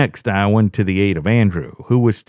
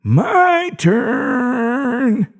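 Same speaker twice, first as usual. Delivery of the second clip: cruel smile. A narrator's reading. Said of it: "Carl smiled cruelly as he said".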